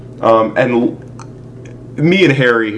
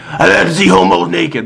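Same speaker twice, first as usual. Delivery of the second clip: a hint of the farmer friend, higher and hammed-up; lightly voiced redneck sidekick, higher; mock Waterboy guy voice; 6 semitones higher than usual. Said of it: "It's the guy who's like".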